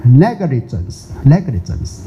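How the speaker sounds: negligence said slowly with an American "e" in "neg"; American pronunciation. Shown as a demonstration. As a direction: negligence drawn out syllable by syllable. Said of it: "这是美国发音啊".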